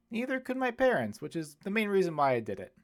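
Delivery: a priest laughing at his own rebellion; amused old priest. Acted. Father Chen laughing at himself.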